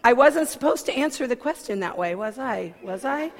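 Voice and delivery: building from fretting to a high laughing shout; mock self-reproach building. Mocking her own insecurity, escalating to a laughing shout. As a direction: spiral into comic panic, ending in a yell. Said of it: "I'm like".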